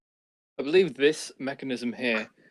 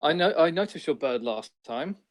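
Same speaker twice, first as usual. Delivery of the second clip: character voice. Acted. Player voices his character questioning gnome.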